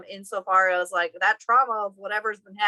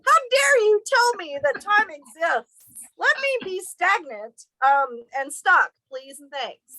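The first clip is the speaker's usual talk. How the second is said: mock dramatic plea; 10 semitones higher, 4 dB louder, slower than usual. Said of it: "I yelled at him".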